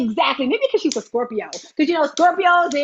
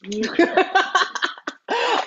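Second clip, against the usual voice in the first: long high peal of laughter; real laugh, let it run; 5 semitones higher than usual. Real, not acted. Host sending mom off after her hello, laughing.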